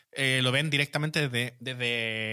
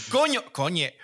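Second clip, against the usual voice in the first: mock pained curse; 4 semitones higher, slower than usual. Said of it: "te das una patada en una mesa y dices".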